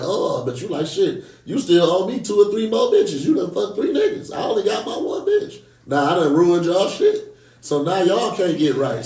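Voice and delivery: acted-out indignant comeback, pitch climbing midway; mock an aggrieved partner arguing back; indignant retort. Speaker voicing a cheated partner arguing back, mock-indignant.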